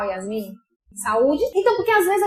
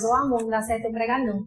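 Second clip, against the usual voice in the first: quick discouraged aside; 4 semitones lower, 4 dB quieter, faster than usual. Retold or imitated. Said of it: "pensei em ainda falar pra Tomás".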